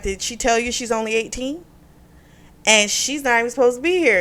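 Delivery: mildly indignant, retold accusation; out her to her friends, a touch angry; imitating pissed-off husband. Husband telling her friends she's only eighteen, mildly pissed off. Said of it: "And he's pissed".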